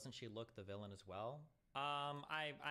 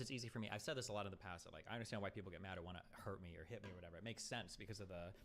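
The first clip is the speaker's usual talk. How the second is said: ordinary talk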